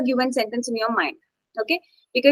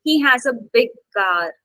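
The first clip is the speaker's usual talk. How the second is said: BIG picked out firmly; stress on BIG. Shown as a demonstration. Teacher giving an adjective example, stress on BIG. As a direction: put the weight on BIG. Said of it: "You're emphasizing on adjectives".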